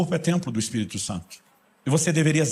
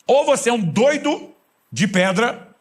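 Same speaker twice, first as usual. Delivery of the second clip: high, loud and slow for the laugh; exaggerated punchline; 10 semitones higher, 5 dB louder, much slower than usual. Real, not acted. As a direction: stretch out the joke. Punchline to congregation.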